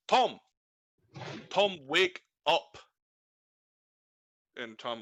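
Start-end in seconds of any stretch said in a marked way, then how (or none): 0.1-2.8 loud call to wake the sleeping driver; Tom, wake up, shouted up high; calling to wake him. Acted. Employer shouting the dozing driver awake. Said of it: "and go".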